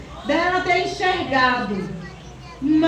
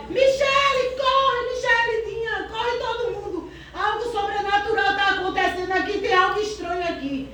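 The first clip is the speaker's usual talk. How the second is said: reenacted alarm, pitched up then easing; retold cry for help; 2 semitones higher than usual. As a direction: imitate calling everyone to come running, without full shouting. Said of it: "Comecei a gritar".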